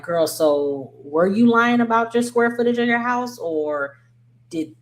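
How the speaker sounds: high, disbelieving question; incredulous. Retold or imitated. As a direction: ask it like you can't believe it.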